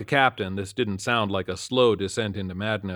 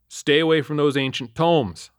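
louder, higher warning; threatening; 6 semitones higher, 5 dB louder than usual. A narrator's reading. Cop warning the homeless man, louder and higher. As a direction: warn him off sternly. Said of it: "I threatened the homeless guy".

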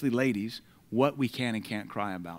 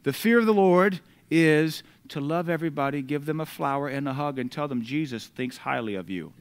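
mocking soft gospel. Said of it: "No, the fear of the Lord".

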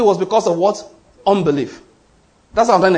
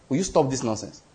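low, softer scolding, talking down to it; 7 semitones lower, 8 dB quieter than usual. Retold or imitated. Jesus rebukes the storm, talking down at it. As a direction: scold the storm like an unruly child from above. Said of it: "talk down at the wind".

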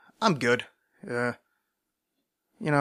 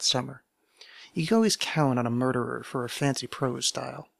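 literary reading; 3 dB quieter than usual. Acted. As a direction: read it like a lingering confession. Reads novel opening aloud.

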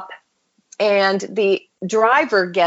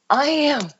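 high, emotional quote with restraint; tearful retelling; 6 semitones higher than usual. Retold or imitated. Old woman answering after she starts crying, tearful retelling. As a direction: begin her reply, moved and pitched up. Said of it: "she starts crying".

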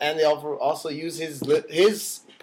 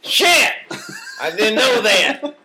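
surprised; 9 semitones higher, 8 dB louder, slower than usual. Real, not acted. Startled by the news.

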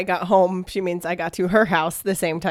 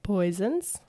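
trailing off; 6 dB quieter than usual. Real, not acted. Thinking aloud, trailing off.

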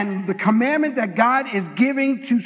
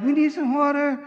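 cranky whining; 3 semitones higher than usual. Acted. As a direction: grumble like a cranky crowd. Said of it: "they're all cranky".

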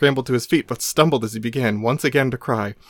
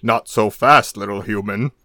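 mild grunt; 2 semitones lower than usual. Acted. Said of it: "grunted the Hulk".

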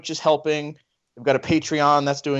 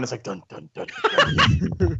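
Jumanji drums; 13 semitones higher than usual. Retold or imitated. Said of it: "like in the first movie".

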